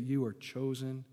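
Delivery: soft, low reassurance; gentle voice of God. Retold or imitated. Preacher voicing God softly to a doubter. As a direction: tell them gently they're chosen. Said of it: "God would say to you".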